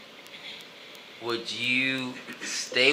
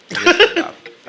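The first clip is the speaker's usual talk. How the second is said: laughing; 7 dB louder, faster than usual. Real, not acted. Laughing at own voice.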